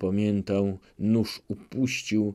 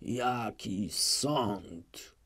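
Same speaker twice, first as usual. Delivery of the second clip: very slow, much softer mumble; drowsy mumble; 8 dB quieter, much slower than usual. Acted. Chmielnicki nodding off mumbles, drowsy. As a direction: let it slur out as he falls asleep. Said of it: "mruknął".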